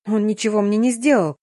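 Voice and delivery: plain reading voice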